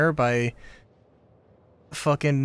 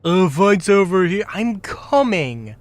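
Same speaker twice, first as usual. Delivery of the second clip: mocking parrot; 6 semitones higher, 6 dB louder than usual. Mocking the game character's line.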